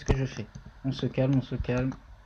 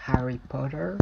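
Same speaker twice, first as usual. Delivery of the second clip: English accent; 4 dB quieter than usual. Shown as a demonstration. Teacher jokingly shows off an English accent to viewers, mock English accent. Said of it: "Avec mon accent parfait".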